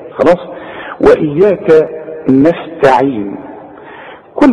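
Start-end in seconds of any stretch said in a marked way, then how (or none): 1.0-3.4 slow, measured model reading; slow careful recitation. Shown as a demonstration. Teacher models the verse for a student, slowly and carefully. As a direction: recite it word by word, unhurried. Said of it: "عند الوصل توصل".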